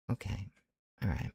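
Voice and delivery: soft whispered relax to himself; self-calming whisper. Real, not acted. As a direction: talk yourself down in a hush. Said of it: "calming himself down".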